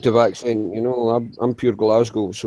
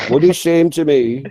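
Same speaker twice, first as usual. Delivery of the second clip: put-on slow, drawn-out Yorkshire accent; slower than usual. Listing Yorkshire towns to settle a row, slow Yorkshire accent. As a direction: stretch it out like a Yorkshireman. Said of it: "you're Yorkshire".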